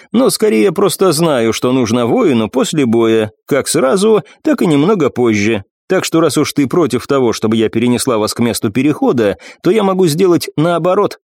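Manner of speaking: a war goddess explaining calmly; commanding warrior goddess. Acted. Nephrite voiced, higher, slow.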